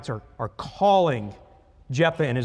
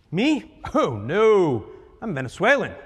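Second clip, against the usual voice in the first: nervous denial; 2 semitones higher than usual. Acted. Suspect lying at checkpoint.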